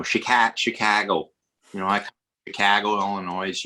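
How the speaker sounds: lightly imitated Chicago accent; a touch of Midwestern vowels on Chicago. Shown as a demonstration. Explaining regional accents to British listeners, light Chicago Midwest accent. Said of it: "would the Midwest be".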